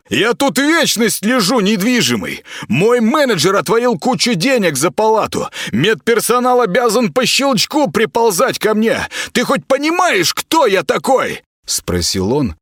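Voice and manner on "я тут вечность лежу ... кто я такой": high, haughty and entitled; spoiled star demanding service; arrogant patient. Acted. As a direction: lord it over the nobody. Klaus boasting.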